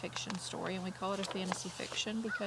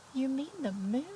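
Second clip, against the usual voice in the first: high, incredulous rabbit; lightly voiced surprised rabbit; Rabbit asking; 6 semitones higher, 4 dB louder than usual. Rabbit questions Mole.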